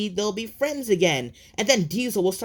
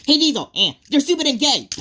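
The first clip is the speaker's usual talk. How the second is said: taunting yell; 4 semitones higher, 6 dB louder, faster than usual. Acted. Taunting Diesel to lure him.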